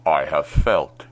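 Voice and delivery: hands cupped round the mouth, booming villain; Darth Vader impersonation. Shown as a demonstration. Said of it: "do a pretty good Darth Vader impersonation".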